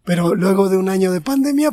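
real hoarse throat. Real, not acted. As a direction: talk through a hoarse throat. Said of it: "me está cambiando la voz".

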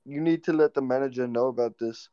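lightly put-on Indian accent; a hint of an imitated Indian accent; retold husband in a loose Indian accent. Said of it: "that guy sounded Indian".

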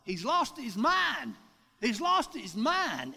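slow loud high yelling; retold hollering. Two girls running from the van yelling about him, loud and slow. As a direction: shout it out slowly in alarm. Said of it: "they started hollering".

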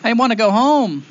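high-pitched whimpering boy, acted; tearful pleading. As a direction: plead like a lost child near tears. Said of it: "begins to cry, and he says".

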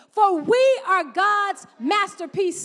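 slow, stretched read with the congregation; slow read-along. Shown as a demonstration. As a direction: lead them through it word by word. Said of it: "I want you to read it with me".

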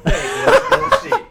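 laughing bro hype chant; frat bro. Retold or imitated. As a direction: belt it out like a hyped-up bro. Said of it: "he was on some".

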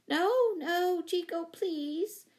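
high cry, loud then drawn out; alarmed plea. A narrator's reading. Owner stopping her monkey mid-sentence, alarmed. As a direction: beg the pet to stop, pitched well up.

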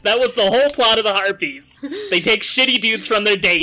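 creature voice. Acted. GM voicing harpy lore excitedly.

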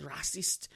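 "Racist" with French sounds, as the show says it; French pronunciation. Retold or imitated. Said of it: "that's how they say it in French".

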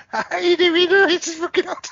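high, loud awkward hello; awkward greeting. Retold or imitated. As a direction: bluff through the embarrassment. Awkward reply to distant call.

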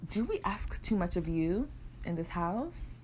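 slow, weary parent voice; parental guilt. Retold or imitated. Parents questioning daughter at home, slow and weary. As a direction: sigh it out as a hurt parent. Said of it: "And they're like".

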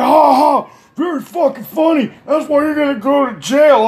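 high, whiny mock outrage; imitating a furious man's bitter laugh; sarcastic anger. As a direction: bark a fake laugh, then threaten in high pitch. Mocked man retorts angrily.

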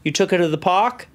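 lightly imitated Boston speech; Boston accent. Dog owner on the phone to his daughter, Boston accent. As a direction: put on a mild Boston accent. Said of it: "Is he from Boston now?".

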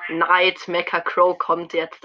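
slow, loud announcing; drawn-out excited announcement. Real, not acted. Announcing new skin arriving.

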